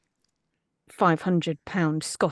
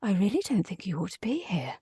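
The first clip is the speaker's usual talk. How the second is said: quicker, lightly acted reproach; acted game line; 4 dB quieter, faster than usual. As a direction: recite a disapproving line in character. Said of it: "had to come in and say".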